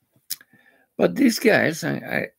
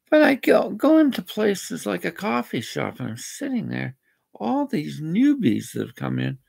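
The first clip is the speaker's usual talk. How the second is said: ranting; 5 semitones higher than usual. Real, not acted. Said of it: "Yeah, I'm ranting".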